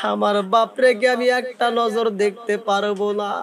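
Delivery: put-on tearful child's plea. Crying boy asks mother for his father, tearful plea. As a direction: plead with mother in a lightly acted lament. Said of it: "কান্দার কয়".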